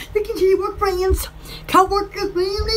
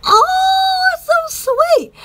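cooing at the dog; 12 semitones higher, 3 dB louder, much slower than usual. Real, not acted.

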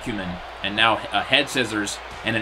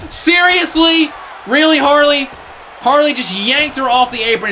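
outraged disbelief; 8 semitones higher than usual. Real, not acted. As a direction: drag out the disbelief at Harley. Heel yanks partner off apron.

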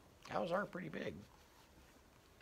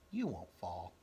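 calm, lower, reassuring; steady the child softly; 5 semitones lower, 4 dB quieter than usual. Acted. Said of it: "Her voice was steady and soft".

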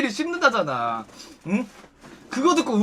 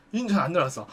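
low, soft, falling reply; terse male customer; 6 semitones lower, 9 dB quieter, faster than usual. Retold or imitated. Customer answering the hostess's small talk, terse and low. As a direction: drop it low and quiet, giving little back.

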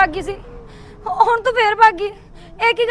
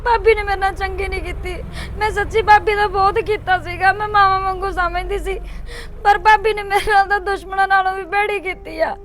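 speaking through tears; frightened mother, near sobbing; crying; 2 semitones lower, 3 dB quieter than usual. Acted. Sister telling her brother about the call, crying.

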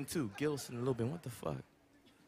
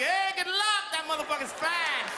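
put-on naive kid reply; 8 semitones higher than usual. Acting out childhood naive reply.

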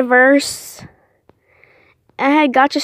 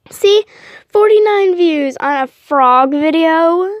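excited; 4 semitones higher, 4 dB louder, slower than usual. Real, not acted. Showing off frog video views.

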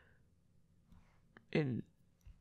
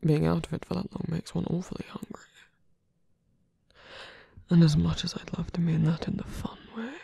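teasing whisper. Acted.

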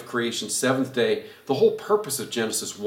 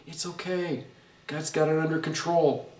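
reassuring; 2 semitones higher, 4 dB quieter than usual. Pretend. Reminding friend reassures.

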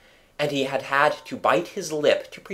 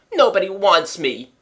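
put-on child near tears; 6 semitones higher, 5 dB louder than usual. A narrator's reading. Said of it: "Michael had nearly cried".

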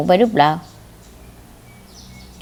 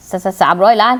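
stammering shock; 3 semitones lower than usual. Acted. Stunned by huge investment offer.

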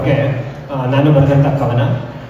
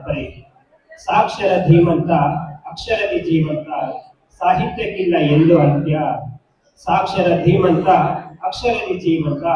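measured verse reading with pauses between phrases; poem recitation; 3 dB quieter than usual. Acted. Recites own poem to audience.

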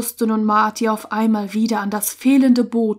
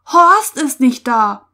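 loud, slow, alarmed cry; shocked, raised voice; 3 semitones higher, 7 dB louder than usual. A narrator's reading. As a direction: cry out in dismay. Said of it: "schrie Ulrich auf".

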